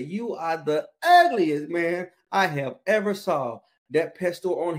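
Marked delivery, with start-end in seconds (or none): 0.0-3.6 slow, drawn-out insult, a bit louder; insulting parrot, louder. Retold or imitated. Parrot repeating its insult to the customer, slow and mocking. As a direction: rude parrot pushing it again. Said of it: "looked at that guy and said".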